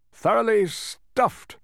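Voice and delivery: high, slow, loud sigh of fullness; drawn-out groaning sigh; overfull sigh. A narrator's reading. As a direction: sigh the words out, stuffed. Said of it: "sighed the Count".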